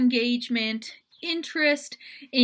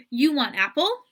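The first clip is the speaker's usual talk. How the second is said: "You want apple?" lifted at the end, a touch louder; simplified parentese; 2 semitones higher, 4 dB louder than usual. Shown as a demonstration. Parent asking a toddler a simplified question. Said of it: "adult might say".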